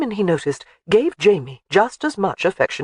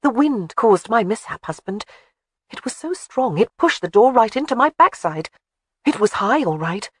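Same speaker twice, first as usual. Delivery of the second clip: lightly voiced young wife, a touch higher; chatty wife making excuses, gently raised; the speaker's voice; 6 semitones higher than usual. Wife excusing her mishap to her husband, lightly higher voice.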